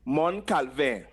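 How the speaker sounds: slow "Mon Calvin", nasal mon; teacher introducing the patois name; patois place name. Shown as a demonstration. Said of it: "Mon meaning hill".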